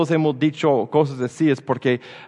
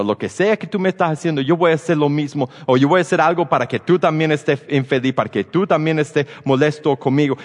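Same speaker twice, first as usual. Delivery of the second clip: mock retaliation; 3 semitones higher, faster than usual. Paying back mistreatment, retaliatory voice.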